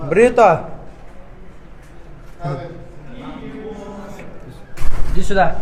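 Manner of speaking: calling out. Real, not acted. Calling someone over loudly.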